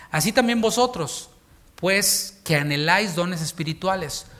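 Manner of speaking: slow, solemn Bible reading; measured preacher reading scripture. Acted. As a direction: read the verse slowly and gravely. Reads scripture aloud.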